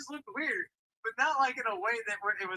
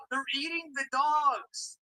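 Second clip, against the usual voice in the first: slow, appalled disbelief; horrified; 4 semitones higher, much slower than usual. Real, not acted. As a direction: drag it out in horror. Horrified at dog ramen.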